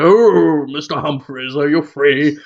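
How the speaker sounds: lightly put-on sitcom character call; hint of a sitcom floorwalker; Captain Peacock. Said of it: "Captain Peacock would go".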